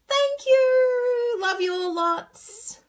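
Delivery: high, loud, drawn-out goodbye; sing-song loving farewell; gushing sign-off. Real, not acted. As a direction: beam it out to your fans, slowly. Cheery farewell to viewers.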